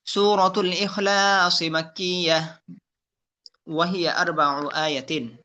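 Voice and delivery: slow, measured tajweed chant; Quran recitation. Shown as a demonstration. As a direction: recite with drawn-out vowels. Recites surah intro.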